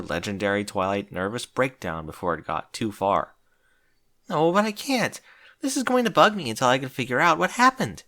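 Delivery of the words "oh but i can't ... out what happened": moaning. A narrator's reading. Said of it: "Twilight moaned".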